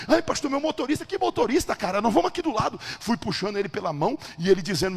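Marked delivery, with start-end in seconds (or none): 0.1-1.0 high-pitched mock protest; imitated reluctant man, pitched up; flustered protest. Doctor's second acted protest. 1.0-2.8 high, exasperated retort; acted impatient insistence, voice pitched up; exasperated brush-off. Acted overriding of the protest.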